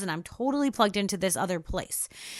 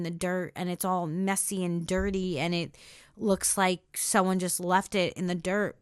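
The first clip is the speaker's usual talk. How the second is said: getting emotional; 2 semitones lower than usual. Real, not acted. Podcaster recalling the buried baby she uncovered, getting emotional. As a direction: let the voice sink as feeling comes up. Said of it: "probably going to get emotional here".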